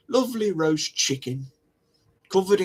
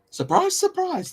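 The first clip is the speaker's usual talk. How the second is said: sarcastic surprise. Acted. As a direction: act amazed with heavy sarcasm.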